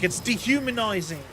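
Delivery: lightly mimicked British accent; a British guy's complaint, accent copied; imitated British accent. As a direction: quote him in his British accent. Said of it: "why am I doing the accent for the guy".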